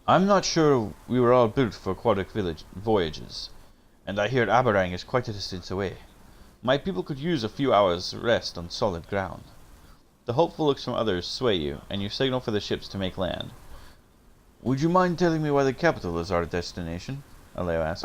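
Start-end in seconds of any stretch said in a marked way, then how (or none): 0.1-9.4 attempted Russian accent. Aleo asks to rest his people, tentative Russian accent. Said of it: "trying to give this guy a Russian accent". 14.6-17.2 put-on tentative Russian accent. Aleo asks about the destination, in a Russian accent. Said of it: "trying to give this guy a Russian accent".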